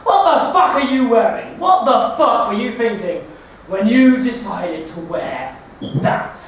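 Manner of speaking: slow, jeering heckler's shout; mock street heckler. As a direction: jeer at the outfit like a lout on the street. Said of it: "I get people shouting at me a lot".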